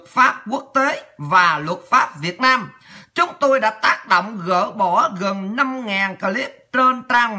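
slow, formal statement reading; news read. Acted. Reading out the minister's statement on YouTube, slow news read. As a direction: read it slowly, phrase by phrase.

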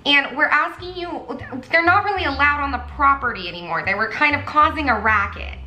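light put-on polished front desk voice; Siri-like receptionist. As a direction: play a smooth automated-sounding clerk. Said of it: "I sounded like Siri".

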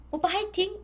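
high, cute Seoul-accent cheer. Shown as a demonstration. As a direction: cheer like a Seoul girl to her oppa. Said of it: "제가 지금 약간 서울 톤으로 하거든요".

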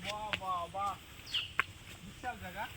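winded from the climb; out of breath, catching air; heavy breathing. Real, not acted. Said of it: "হাঁপিয়ে গেছি". (হাঁপাতে হাঁপাতে)

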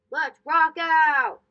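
excited. Acted. Amir eager to party.

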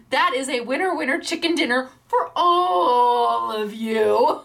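slow laughing catchphrase. Real, not acted. Host celebrating with viewers, slow laughing cheer.

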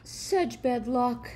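slow, drawn-out pity; a touch of sorrowful head-shaking; sympathetic. Acted. Neighbors console the farmer, slow and sympathetic. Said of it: "they said sympathetically".

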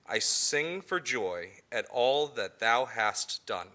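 slow, solemn psalm reading; scripture reading. Acted. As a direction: read it like liturgy. Reads a psalm aloud.

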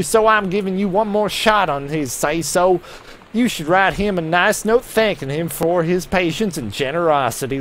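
a mild Southern scold; southern accent. Acted. Reading an editor's angry letter to a writer in a hammed-up Southern accent. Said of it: "I'm generating a southern accent".

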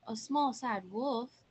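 slow, questioning repeat; mildly incredulous, drawn-out question; puzzled echo. Acted. Hiders echo the answer, doubting.

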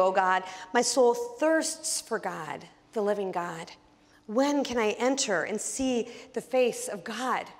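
slow, reverent psalm reading; scripture reading. Acted. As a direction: read the psalm slowly, with longing. Reads Psalm 42 aloud.

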